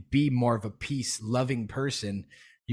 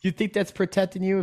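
incredulous lecturing; 6 semitones higher than usual. Retold or imitated. Scolding a masked stranger, high incredulous lecture. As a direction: needle them with disbelief, pitched high. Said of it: "you know, educate 'em".

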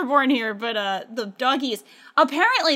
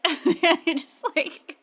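ordinary delivery

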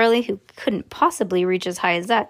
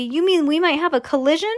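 higher, alarmed question; worried cry; 6 semitones higher than usual. Acted. Father asking Wonka about a collision. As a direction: ask in rising panic. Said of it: "cried Mister T V".

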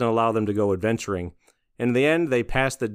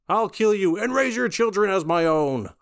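quoting a character; 9 semitones higher than usual. Retold or imitated. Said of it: "My favorite line was".

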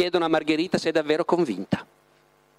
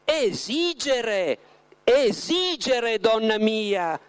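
slow, higher, smiling reply; understanding smile; 6 semitones higher, much slower than usual. A narrator's reading. Voland answers Margherita with an understanding smile. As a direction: draw it out kindly, with a knowing smile. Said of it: "rispose Voland con un sorriso di comprensione".

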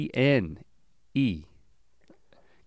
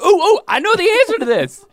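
eager high-pitched, laughing; bursting to answer; enthusiastic; 6 dB louder than usual. Retold or imitated. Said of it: "I was just so enthusiastic".

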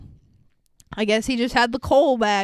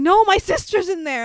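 higher, mock-panicked protest; freaking out; 6 semitones higher than usual. Teddy pleading for his sister in the sack, mock panic. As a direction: act out a brief panicked plea. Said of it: "like, freaking out".

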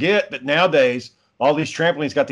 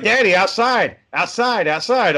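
put-on toddler pleading; 5 semitones higher, slower than usual. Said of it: "He's like".

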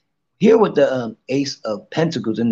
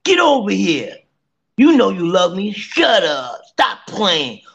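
higher, teasing, bossy come-here; cocky narcissist; 6 semitones higher than usual. Pretend. Acting narcissistic to the room, a cocky tease. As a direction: play the smug narcissist who knows she's loved. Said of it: "It's okay to be narcissistic".

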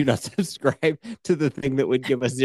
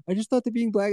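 retold remark; 9 semitones higher, faster than usual. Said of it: "you were like".

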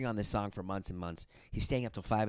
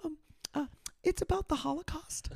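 put-on much higher, casual kid voice; imitating teen son. Father imitating his fourteen-year-old son, casually. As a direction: play his son, offhand and innocent. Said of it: "He goes".

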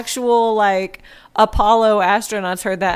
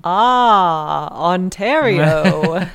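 mock Canadian accent; 4 dB louder, much slower than usual. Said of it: "It's my Canadian accent".

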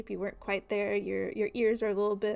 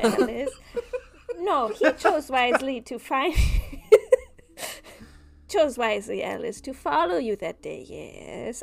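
sinister dream figure; 5 dB louder than usual. Acted. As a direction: purr it like a creepy stranger.

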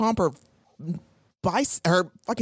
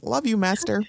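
dreamy devotion; 5 semitones higher than usual. Retold or imitated. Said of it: "picturing Jonathan saying".

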